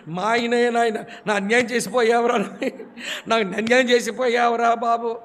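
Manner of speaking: imitating a widow wailing over her husband; mock wailing widow. Preacher mimics a grieving widow at a funeral, mock wailing. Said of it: "అని గుండె బాధేసుకొని".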